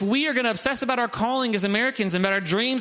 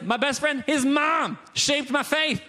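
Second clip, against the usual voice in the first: pitched up, stretched-out amazement; emphatic gushing; 4 semitones higher, slower than usual. Acted. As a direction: gush about it, drawing out the key words slowly. Voicing Paul gushing about friend's mom.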